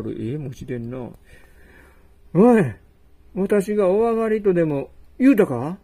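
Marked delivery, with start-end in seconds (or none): 2.3-5.8 angry outburst. Acted. Host angrily confronts guest.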